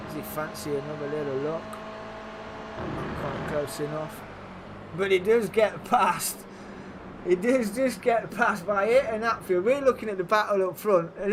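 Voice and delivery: lively live race play-by-play; motorsport commentator. Acted. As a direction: call the race as it happens.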